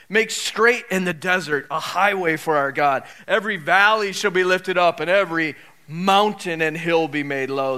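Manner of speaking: measured, declaimed Bible passage; scripture reading. Acted. Preacher reading the prophet to the congregation, proclaiming scripture. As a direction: proclaim it like a herald in the wilderness.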